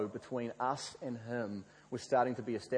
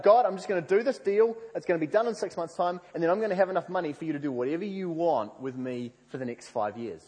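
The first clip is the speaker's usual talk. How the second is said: higher, louder, eager pitch to God; eager boasting; 5 semitones higher, 5 dB louder than usual. Retold or imitated. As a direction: rattle off the grand plan, pleased with it.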